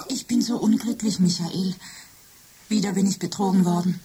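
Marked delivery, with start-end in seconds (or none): 0.1-1.2 whisper. Acted. Machine pleads with Michael.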